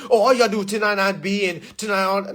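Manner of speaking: mocking commenter.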